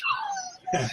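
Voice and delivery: soft, very high laugh; light high-pitched chuckle. Real, not acted. Laughing after his Goldie Hawn story, soft high laugh.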